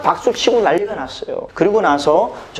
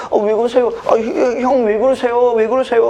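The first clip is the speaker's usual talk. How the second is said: higher-pitched, nervous protest; mock-frightened stammer; acted scared pleading; 4 semitones higher than usual. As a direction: plead with the bullies, retold as a scared kid. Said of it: "그 겁나잖아".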